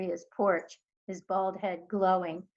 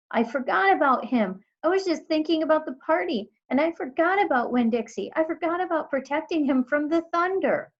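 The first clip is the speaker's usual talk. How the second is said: high, loud, rushed guilt; panicked; 8 semitones higher, 6 dB louder than usual. A narrator's reading. Girl panicking that she forgot her dog. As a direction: blurt it out in panic.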